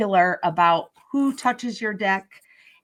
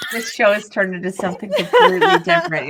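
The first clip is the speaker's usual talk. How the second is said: fast, laughing remark; 3 semitones higher, 6 dB louder, faster than usual. Real, not acted. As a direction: say it while cracking up. Host laughing at the chaos.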